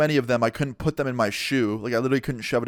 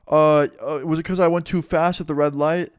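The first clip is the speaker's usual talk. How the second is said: higher, hesitant guess, acted out; imitated nervousness; 4 semitones higher, 3 dB louder than usual. Pulled-over driver answering the cop, mock-nervous hesitation. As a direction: stumble into a nervous question.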